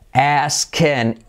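"asking" with the I said as E, "asken"; slow "asking", ending like "-ken". Shown as a demonstration. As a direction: make the second vowel of "asking" an E. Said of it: "I como E".

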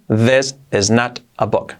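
slow, careful teaching delivery; slow model sentence. Shown as a demonstration. Teacher slowly models for students. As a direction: lay out each word slowly. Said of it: "Dicho rápido".

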